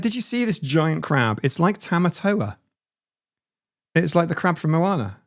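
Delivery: loosely Scottish retelling; attempted Scottish accent. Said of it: "I'm gonna do a Scottish accent".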